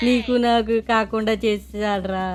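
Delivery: comic fake sobbing lament; mock crying. Mourning the pizza to his friend, mock crying. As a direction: blubber over the pizza. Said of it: "ఎందుకురా మీ ఇద్దరు అలా ఏడుస్తున్నారు".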